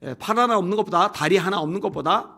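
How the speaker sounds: ordinary delivery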